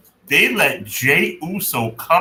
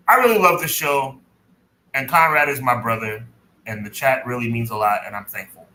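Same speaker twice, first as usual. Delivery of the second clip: sentimental; 4 semitones lower than usual. Real, not acted. Co-host thanking the show, his brother and chat, sentimental. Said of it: "can I get sentimental for five seconds".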